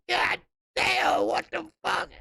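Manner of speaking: high, squeaky mock disbelief; retold shocked outburst. Retelling his shock at a baby photo, high mock disbelief. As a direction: act out the shock of seeing the photo. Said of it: "I said".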